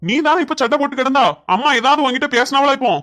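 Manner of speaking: husband's heated rebuke. Acted. Son defending his mother to his wife, scolding. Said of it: "சத்தம் போடாதப்பா".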